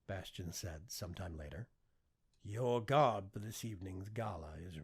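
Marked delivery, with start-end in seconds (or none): 2.4-4.8 lightly voiced AI servant. AI avatar announces.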